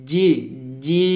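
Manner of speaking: জিম with the long vowel held steady, lips closing on m; long drawn JIM. Shown as a demonstration. Teacher shows students the four-alif stretch, long drawn জিম. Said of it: "আবার বলেন".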